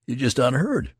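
excited soldier building suspense; eager repeat. A narrator's reading. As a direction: insist eagerly on having news. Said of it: "repeated the other".

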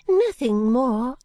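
put-on high, slow, whispery old lady confiding; fluttery elderly lady, hushed and high; Miss Flite voice. Miss Flite closes remark.

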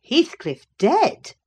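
astonished exclaim. A narrator's reading. Lockwood hearing of Heathcliff's death, slow astonished exclaim. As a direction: gasp out the news in disbelief. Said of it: "I exclaimed, astonished".

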